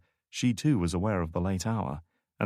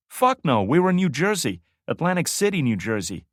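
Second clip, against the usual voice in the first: higher, louder brash woman correcting; Frost's voice, emphatic; 8 semitones higher, 6 dB louder than usual. Acted. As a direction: set him straight, brashly.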